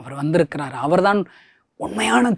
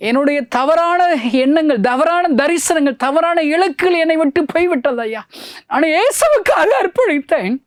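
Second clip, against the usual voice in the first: full-force preaching; 10 semitones higher than usual. Acted. Preacher recounting his dedication to Jesus, fervent full-force cry. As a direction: cry it out to the congregation with fervour.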